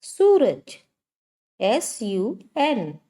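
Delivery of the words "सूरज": सूरज called out high and loud; teacher calling out the answer; emphatic teaching word. Shown as a demonstration. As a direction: announce सूरज to the class. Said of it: "यानी".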